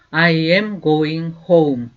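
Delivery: slow, clear teacher's model, each word apart; slow demo pronunciation; slow model sentence. Shown as a demonstration. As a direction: say it slowly for students to repeat. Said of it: "나는 집으로 가고 있는 중이야".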